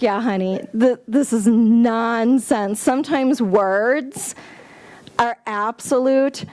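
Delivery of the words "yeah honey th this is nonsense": slow, easy "this is nonsense" with a wink; knowing wink. Retold or imitated. Spirit winking at the speaker, slow and knowing. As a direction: agree slowly and knowingly, unbothered. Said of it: "was kinda winking at me like".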